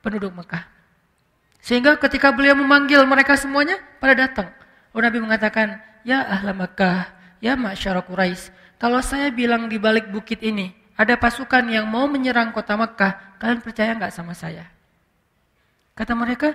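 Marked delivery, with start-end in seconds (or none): 6.1-14.7 gentle address. Retold or imitated. Voicing the Prophet's gentle address.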